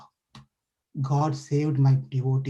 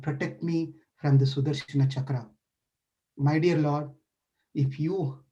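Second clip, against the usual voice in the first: a lightly voiced penitent sage; pleading sage; 3 semitones lower than usual. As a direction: beg the Lord with folded hands. Sage's pleading prayer, roleplayed.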